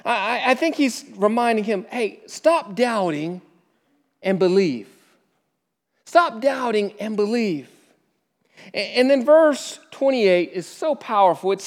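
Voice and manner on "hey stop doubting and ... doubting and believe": kind rebuke. Acted. Jesus gently rebuking Thomas, soft and kind. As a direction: rebuke him tenderly, quietly. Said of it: "it's a kind rebuke".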